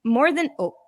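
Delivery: echoey toy mic voice; toy echo microphone. Real, not acted. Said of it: "that echo is".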